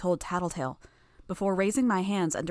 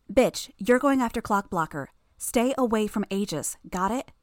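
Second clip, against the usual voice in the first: raised-pitch, urgent instruction; urgent orders; 3 semitones higher, 3 dB louder than usual. Acted. Tattletale sending Bitch after Clockblocker, urgent and firm. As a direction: give orders with pressing urgency.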